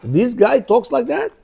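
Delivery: slow disbelief, as a stunned outsider; shocked. Acted. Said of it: "they'd be shocked".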